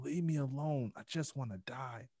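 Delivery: high-pitched mock yell, falling away; retold scream. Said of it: "I just kept screaming".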